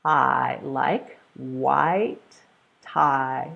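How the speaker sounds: "I, like white tie" said slowly and clearly; slow vowel demo. Shown as a demonstration. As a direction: open the mouth wide on "white tie". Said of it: "This is the vowel sound I".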